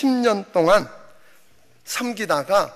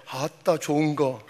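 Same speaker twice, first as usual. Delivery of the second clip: Jeolla dialect aside; 3 semitones lower than usual. Pretend. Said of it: "전라도 버전은".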